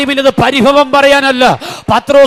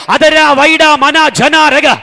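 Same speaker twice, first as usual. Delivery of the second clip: praying in tongues; much slower than usual. Real, not acted. Preacher prays in tongues.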